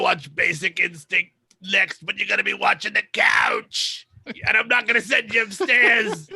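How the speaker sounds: hammed-up scolding parent; mock parental yelling. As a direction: lay down the law, half shouting. Acting out the bossy parent.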